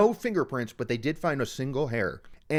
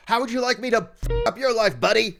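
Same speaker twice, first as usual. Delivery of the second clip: higher, faster, louder mock threat; imitating the brother threatening the cameraman, fast and high; retold threat; 7 semitones higher, 4 dB louder than usual. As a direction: fire it off like a furious brother. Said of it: "He was also assaulting the cameras, going".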